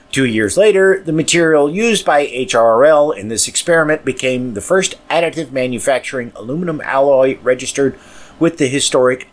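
measured, slightly lifted reading voice; podcast news read; news article read. Acted. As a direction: read the article aloud to listeners.

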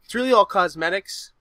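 a hint of Boston, unintended; slight Boston accent. Real, not acted. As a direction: let a little Boston accent slip in. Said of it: "I kinda sounded Boston right there".

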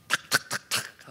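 sharp, toneless repeated clicks; imitated bottle clicks. Preacher mimics a man noisily opening his water, imitated clicks. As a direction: make crisp popping clicks like a bottle being opened. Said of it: "소리가 나게".

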